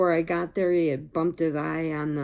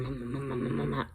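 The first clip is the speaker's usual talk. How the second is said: put-on baby talk; 6 dB quieter, faster than usual. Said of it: "like that to him".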